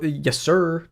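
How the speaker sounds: drawn-out Southern "sir"; Southern accent. Retold or imitated. Streamer quoting engineering school friends, lightly Southern accent. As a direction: say it with a Southern lilt. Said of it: "their accent is m-, worse than mine".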